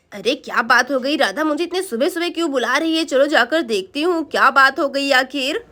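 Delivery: low-pitched wondering voice; puzzled neighbour. Acted. Neighbour wonders why she is summoned early, low and puzzled.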